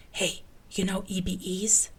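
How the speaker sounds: secretive voiceless whisper. A narrator's reading. Krychek checks for eavesdroppers, then whispers to Mulder. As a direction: lean in and whisper it. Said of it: "and then whispered".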